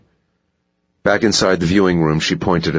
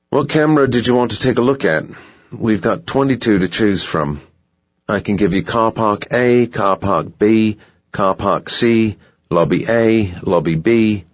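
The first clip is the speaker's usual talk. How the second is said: higher-pitched, obliging guard voice; hotel security guard; 6 semitones higher than usual. Acted. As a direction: list the options as a helpful security guard.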